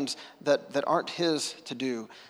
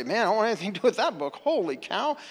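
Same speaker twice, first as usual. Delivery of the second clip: imitated outrage; 3 semitones higher than usual. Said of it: "make you wanna push the Bible away and say".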